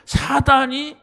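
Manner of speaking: preacher declaring the word; proclaimed scripture. Acted. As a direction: thunder the verse like a command. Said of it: "성경은 그걸 말하고 있어요".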